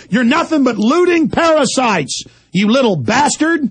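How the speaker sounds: rising, furious tirade at the screen; losing his temper on air; angry rant. Real, not acted. Host ranting at the politicians on his screen, furious.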